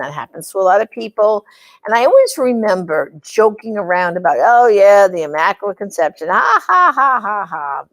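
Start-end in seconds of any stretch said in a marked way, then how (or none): 4.4-7.8 sarcastic scoffing with a mock laugh. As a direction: tease it, then burst into a put-on cackle. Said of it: "you know, teasing, kidding".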